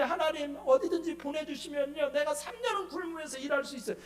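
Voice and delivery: high-pitched, eager pledge to God; retold fervent prayer. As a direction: imitate an over-eager praying believer. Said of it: "눈물 콧물 빼면서 방언 기도하면서". (높은 목소리로 열성껏 서원하듯)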